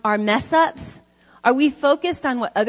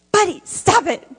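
put-on "Buddy, stop it" yelled higher like a five-year-old copying; imitating a little boy; 8 semitones higher, 6 dB louder than usual. Foster son copying the speaker's yell at the dog. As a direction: echo the parent like a small boy. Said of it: "Dominic says".

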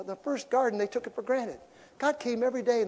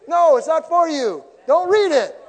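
high, much louder, slow; loud high exclaim; 10 semitones higher, 13 dB louder than usual. Real, not acted. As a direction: shout it out high. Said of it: "preacher answering the critic".

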